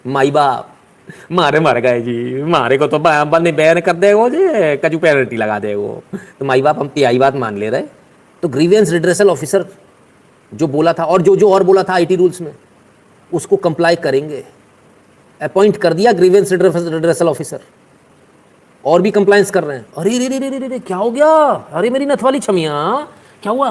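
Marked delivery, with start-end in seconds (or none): 0.1-7.8 mock pleading bumpkin. Twitter voiced pleading in dialect. 20.0-23.7 high mock "arey re re"; higher, hammed-up sympathy. Mock concern at Twitter.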